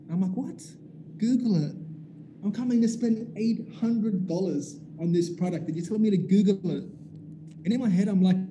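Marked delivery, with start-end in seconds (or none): 0.3-6.8 stunned at the answer; outraged disbelief. Retold or imitated. Customer shocked the seller says Google it, high and indignant.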